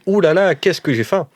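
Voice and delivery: mock hungry groan, drawn out; hammed-up hunger. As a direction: overplay the hunger loudly to fool the guards. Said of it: "Je fais".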